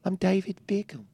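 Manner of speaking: soft-spoken English footballer voice, light touch; David Beckham impression. Cohost repeating his celebrity intro, in a light English accent. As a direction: say it as Beckham would, mildly. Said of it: "that's a good David Beckham".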